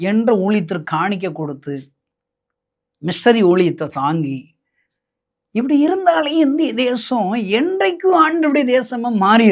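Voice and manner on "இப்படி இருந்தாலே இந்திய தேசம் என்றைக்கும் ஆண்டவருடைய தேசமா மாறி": rising vision. Real, not acted. Preacher's vision for India.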